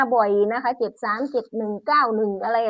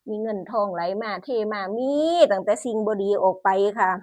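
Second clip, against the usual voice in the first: hushed prayer to the spirit house. Real, not acted.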